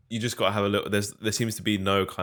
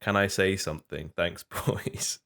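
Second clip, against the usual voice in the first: lightly voiced south London roadman accent; 3 semitones higher than usual. Shown as a demonstration. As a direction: read it in a hint of roadman slang. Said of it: "roadman slang ... do my best impression".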